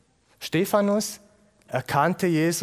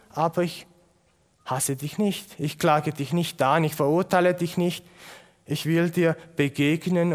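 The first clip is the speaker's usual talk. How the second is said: tender voice of Jesus. Acted. Jesus tells Saulus he does not condemn him, tender. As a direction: call his name, then gently reassure.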